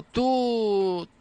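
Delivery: very slow, each word stretched; a stretched-out "Tú tal nombre"; drawn-out example. Retold or imitated. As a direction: spell it out slowly as a wrong example. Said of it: "o no le digo".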